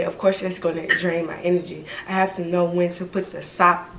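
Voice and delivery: words shaped around dental retainers; talking with retainers. Real, not acted. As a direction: speak with retainers in your mouth. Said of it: "These damn retainers be having me talk funny".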